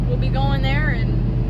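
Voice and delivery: talking through a yawn; words stretched by a yawn. Real, not acted. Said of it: "I yawned, so it looks like".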